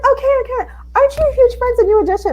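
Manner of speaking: high, loud, fast fan gush; excited gushing. Retold or imitated. Fan spots her and client at event, excited gushing. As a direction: squeal it like a thrilled fan.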